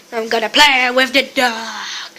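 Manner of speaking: hushed whisper to the camera. Real, not acted. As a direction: whisper it secretly. Whispered aside.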